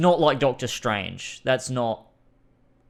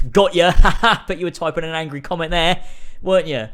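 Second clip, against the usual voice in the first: laughing tease; 5 semitones higher, 8 dB louder than usual. Real, not acted. Teasing after fake insult.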